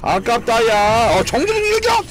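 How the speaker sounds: high excited yells; excited shouting. Real, not acted. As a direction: cheer it out, so close. Excited reaction to near kill.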